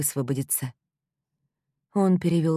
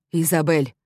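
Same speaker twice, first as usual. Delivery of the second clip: loud startled cry of her name; scared boyfriend shouting Изабель louder; frightened cry; 5 dB louder than usual. A narrator's reading. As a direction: call out to her in alarm. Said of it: "испуганно вскрикнул Итан".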